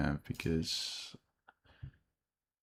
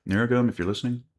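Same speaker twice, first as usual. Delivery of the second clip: chewing gum; 6 dB louder than usual. Real, not acted. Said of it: "Sorry that you now hear me chewing gum".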